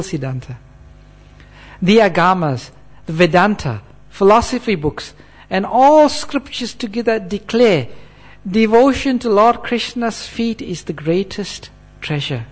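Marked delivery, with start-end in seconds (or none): 1.8-12.5 emphatic, declamatory recitation in separated phrases; scripture reading aloud. Acted. Preacher declares what all scriptures say, emphatic recitation. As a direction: proclaim each phrase of the verse. Reads out verse translation.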